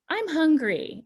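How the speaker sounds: lightly voiced hungry child; child complaining. Child telling a parent they are hungry, lightly voiced. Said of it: "a child will say".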